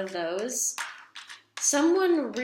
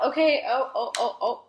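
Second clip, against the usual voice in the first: sudden higher, louder oh-oh-oh as a card jumps; surprised; 3 semitones higher, 4 dB louder, faster than usual. Real, not acted. Reader startled when a card flips out of the deck. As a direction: caught off guard by a flying card.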